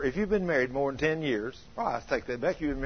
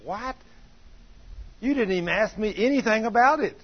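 wife's outraged high yell; shrill indignation, loud and higher; indignant wife; 8 semitones higher, 5 dB louder than usual. Retold or imitated. Wife to husband about the surprise house, outraged loud protest. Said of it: "She said".

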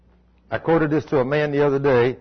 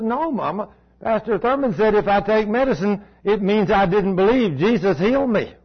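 put-on high, raised child's voice, defiant; little boy refusing; 6 semitones higher than usual. Preacher voicing Cody refusing his mother, high and firm. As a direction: plead firmly like a six-year-old.

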